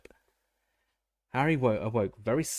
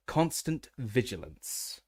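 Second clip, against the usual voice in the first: Moody impression; 2 semitones higher, much slower than usual. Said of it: "He sounds exactly like Moody".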